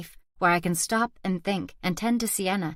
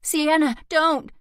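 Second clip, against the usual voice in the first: sharp shout, higher and louder; alarmed shout at the child; 9 semitones higher, 5 dB louder, slower than usual. A narrator's reading. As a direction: yell it to stop the child. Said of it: "I shout".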